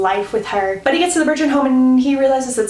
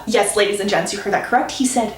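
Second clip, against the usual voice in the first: ordinary talk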